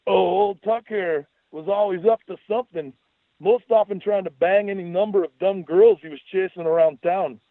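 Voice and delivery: high, exaggerated Scottish accent; mocking Scottish brogue, pitched high; goofy Scottish brogue. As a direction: needle him in a silly Scottish voice. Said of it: "stayed ensconced in the Scottish brogue".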